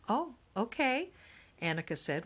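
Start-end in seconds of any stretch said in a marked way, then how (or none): 0.1-1.1 higher-pitched, relieved acceptance. A narrator's reading. Housekeeper told she can keep her shoes on, relieved. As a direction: let the relief lift your voice. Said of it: "with relief in her voice".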